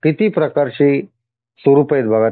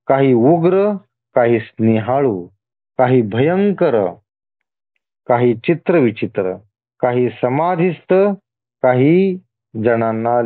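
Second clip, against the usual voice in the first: deliberate list, a pause after each item; measured scripture reading; slower than usual. Acted. God listing his many forms to the devotee, measured reading. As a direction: read it out phrase by phrase.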